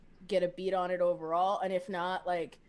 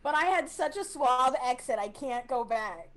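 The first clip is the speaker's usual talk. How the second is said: confused; 5 semitones higher than usual. Acted. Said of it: "Trip will just look at confusion".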